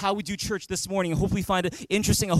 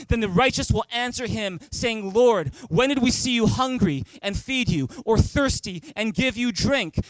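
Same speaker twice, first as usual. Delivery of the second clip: raised, projected scripture reading; big, loud voice; 3 semitones higher than usual. Real, not acted. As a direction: lead the congregation reading aloud. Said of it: "read this in a big, loud voice".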